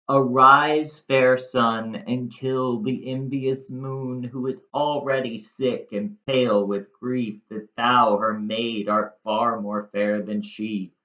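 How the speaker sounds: dramatic verse reading. Acted. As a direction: declaim the Shakespeare with feeling. Reads Shakespeare verse aloud.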